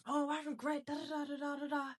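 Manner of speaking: lightly hammed-up victim voice; mock regretful whine. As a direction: mimic a self-pitying sigh of regret. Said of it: "It's like".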